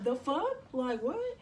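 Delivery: high, loud disbelieving blurt; stunned swearing at a pregnancy test; shocked outburst. Retold or imitated. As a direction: react like you can't believe your eyes.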